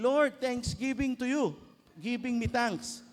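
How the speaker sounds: slow, loud, stiff broken-English thanks; mock thanksgiving prayer. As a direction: parody a rote thank-you prayer. Mock formulaic ACTS prayer.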